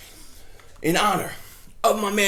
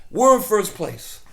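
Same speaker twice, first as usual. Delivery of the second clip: louder and slower, savouring it; emphatic repeat; 7 dB louder, slower than usual. Real, not acted. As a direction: hammer it home, drawn out.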